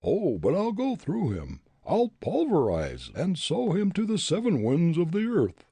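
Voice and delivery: loud, high backwoods bully voice; blustering ruffian. Acted. Bully Jake to tavern keeper, loud blustering bully. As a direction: bluster like a brawler itching for a fight.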